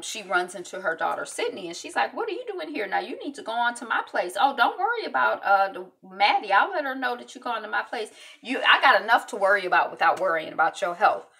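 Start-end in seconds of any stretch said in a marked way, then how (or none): 2.1-11.3 scolding mom. Retold or imitated. Mother scolding her daughter.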